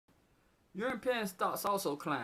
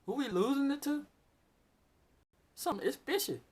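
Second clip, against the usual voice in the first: exasperated rant; 5 semitones higher, 4 dB louder than usual. Real, not acted. Ranting about lost 401k money.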